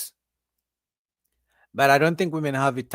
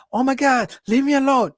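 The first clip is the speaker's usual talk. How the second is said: high-pitched imitation of a woman screaming; mock panicked woman, much higher voice; 10 semitones higher, 4 dB louder than usual. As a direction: fake a scream without full volume. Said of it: "she's gonna scream".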